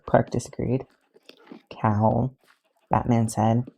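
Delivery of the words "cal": low warning. A narrator's reading. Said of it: "voice low and warning".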